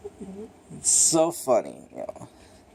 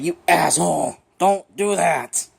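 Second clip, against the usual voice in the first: drawn-out, higher-pitched telling-off; hammed-up indignant rebuke; mock scolding; 3 semitones higher, 3 dB louder than usual. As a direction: scold a pet in playful exasperation. Scolding his turtle, retold.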